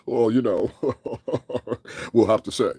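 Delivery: mock an over-articulate business voice; lightly affected, projected stuffy delivery; articulated, projected voice. Mimicking the singer's phony interview voice, over-articulated. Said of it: "That articulated, fucking projected ass voice".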